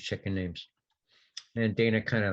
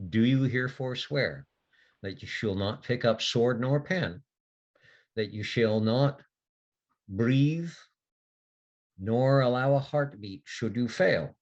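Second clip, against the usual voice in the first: solemn oath; 2 semitones higher than usual. Acted. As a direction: intone it like a sacred vow. Sigrun administers a solemn oath.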